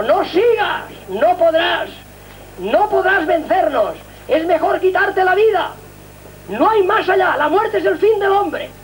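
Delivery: hiss-free but lofty, slowly urging despair; voice of hell tempting. Retold or imitated. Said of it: "rápidamente me atacaba el infierno".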